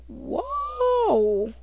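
high, breathy-free gasp of amazement, well above the speaker's voice; a big impressed whoa. Retold or imitated. Kid reacting to the trash talk, amazed. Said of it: "And I'm like".

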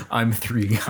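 giggling through the words; laughing. Real, not acted. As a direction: laugh while you say it. Laughing at the joke.

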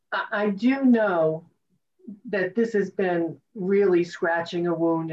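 real tears catching in the voice; words breaking with emotion; choked up. Real, not acted. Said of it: "I'm actually really choked up".

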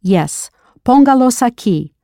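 póngalos with stress on PÓN; stress first syllable. Shown as a demonstration. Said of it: "Note the stress and accent on the first syllable".

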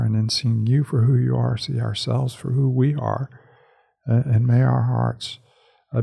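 prayer. Acted. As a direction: pray it gently and sincerely. Closing prayer before the reading.

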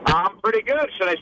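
lightly put-on Irish lilt; a playful hint of Irish brogue; Irish accent. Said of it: "have a little Saint Patty's Day fun".

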